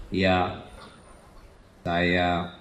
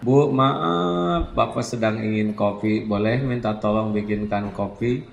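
gentle, respectful asking; polite husband; 2 semitones lower than usual. Shown as a demonstration. Husband politely asking wife for coffee, gentle and respectful. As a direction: request it courteously, unhurried. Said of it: "Bisa kita ngomong itu".

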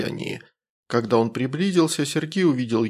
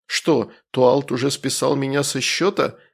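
mocking. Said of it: "насмешливо отреагировал Саерк".

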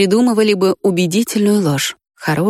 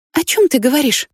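put-on higher, worried girl; alarmed girl's voice; 7 semitones higher than usual. A narrator's reading. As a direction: ask in sudden worry. Risha alarmed.

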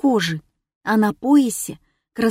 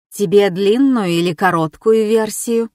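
weary sigh. Acted. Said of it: "Устало вздохнула Кьеюш".

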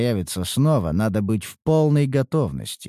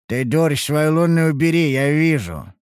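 irritated snap; 6 semitones higher, 4 dB louder than usual. A narrator's reading. Hero snaps at courtesan's magic.

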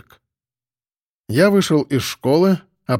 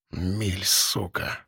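whispered, much softer hiss; barely audible hiss; 6 semitones lower, 9 dB quieter, much slower than usual. A narrator's reading. Prisoner cursing under his breath at the cop, hissed whisper. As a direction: hiss the curse almost silently. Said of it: "еле слышно прошипел задержанный".

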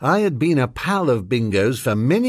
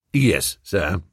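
low, calm manservant; unruffled valet answer; low butler voice; 7 semitones lower than usual. A narrator's reading. Jeeves' low reply.

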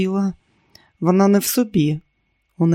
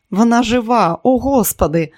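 louder, higher exclamation of relief; amazed relief; 5 semitones higher, 4 dB louder than usual. A narrator's reading. Finding the little girl alive after the crash, amazed relief. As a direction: exclaim it, astonished and thankful.

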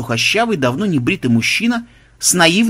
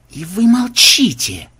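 slow, higher-pitched stern reproach; 7 semitones higher, 3 dB louder, slower than usual. A narrator's reading. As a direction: demand it slowly and severely. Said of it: "сурово спросил Ксенобайт". (сурово, с расстановкой)

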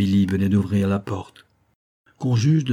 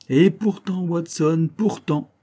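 pensif; 7 semitones higher, slower than usual. Acted. Holmes doute à voix haute.

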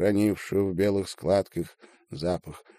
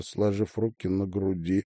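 ordinary delivery, nothing marked

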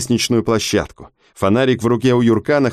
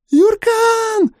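piercing, far higher scream of a name; desperate scream. Acted. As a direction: scream his name in terror. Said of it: "отчаянно, истошно заорала Хана".

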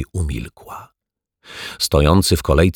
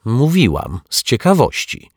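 louder and higher, insisting; impatient repeat; 7 semitones higher, 4 dB louder than usual. A narrator's reading. Neighbour repeating her answer to the men, louder and insistent. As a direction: say it again, sharper this time.

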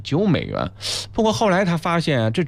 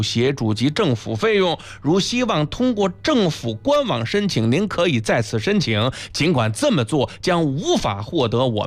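legal disclaimer read aloud. Shown as a demonstration. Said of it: "来，您捋捋舌头，给我们拗，拗一段口".

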